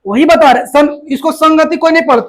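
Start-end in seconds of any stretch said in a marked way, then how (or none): 1.3-1.8 संगति as "sang-gati"; ng from the back in संगति; nasal ng sound. Shown as a demonstration. Teacher models the informed reading, संगति with ng. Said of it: "पढ़ता है जो जानता है".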